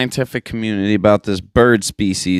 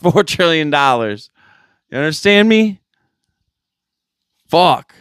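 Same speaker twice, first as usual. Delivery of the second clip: exasperated rant; 5 semitones higher than usual. Acted. Exasperated rant about money and kids.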